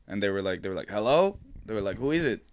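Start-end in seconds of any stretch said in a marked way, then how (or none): 0.9-1.4 high voice. Retold or imitated. Neighbors answer through Ring. 2.0-2.4 high voice. Retold or imitated. Neighbors answer through Ring.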